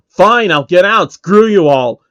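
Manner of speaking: loud, slow, defiant shout. Acted. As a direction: throw the words back at the crowd as you leave. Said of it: "Phil shouts".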